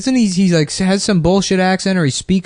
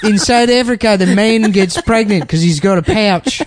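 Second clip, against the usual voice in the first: bad South African accent; 6 semitones higher than usual. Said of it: "our version of the South African accent".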